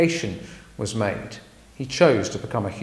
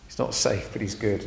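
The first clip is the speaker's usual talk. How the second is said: the same line much softer; softer echo; 3 semitones lower, 6 dB quieter than usual. Shown as a demonstration. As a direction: murmur it back.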